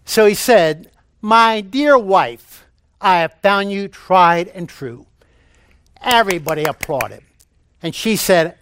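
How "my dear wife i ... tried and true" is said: slow, slightly raised husband's declaration; addressing hard-of-hearing wife. Retold or imitated. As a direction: spell out the tribute slowly for failing ears. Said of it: "she had difficulty hearing".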